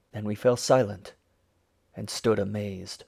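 usual speaking voice

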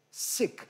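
"Σικ" with a short lax vowel, like English sick. Shown as a demonstration. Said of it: "Αυτό το". («Σικ» με κοφτό φωνήεν)

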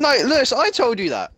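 insistent. Real, not acted. Heated argument between friends.

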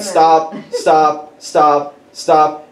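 each STOP set apart and even; repeated interruption. Retold or imitated. God interrupts the crying driver's list, firm and insistent. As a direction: cut in with firm, evenly spaced STOPs.

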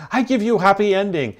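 high, put-on mock Asian accent for the masseuse; hammed-up Asian masseuse accent, pitched high. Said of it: "she goes".

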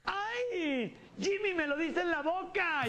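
put-on girl voice. Girl complaining about the kiss.

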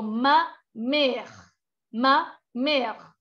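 MÈRE as one long syllable ending on R; slow, separate MA, then MÈRE with mute E; silent final E. Shown as a demonstration. Teacher modelling for students, MA MÈRE with the final E silent. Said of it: "no suena".

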